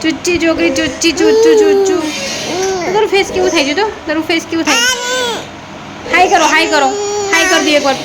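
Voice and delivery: high sing-song coaxing; baby talk. Acted. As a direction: coo and coax the baby to wave hi.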